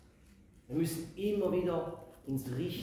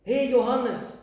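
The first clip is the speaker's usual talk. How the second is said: high, urgent plea not to cry; elder comforting John; 7 semitones higher, 7 dB louder, slower than usual. Acted. Elder tells weeping John, emphatic higher comfort. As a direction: call out to him like the elder. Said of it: "warum sagt jetzt einer dieser vierundzwanzig Ältesten".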